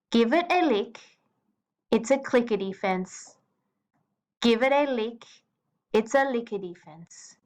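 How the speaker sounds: drawn-out, plodding rhythm; slow poem reading. Shown as a demonstration. Teacher showing the wrong slow rhythm to the class, drawn out. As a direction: drag each line out slowly. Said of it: "if I read it in a very slow rhythm".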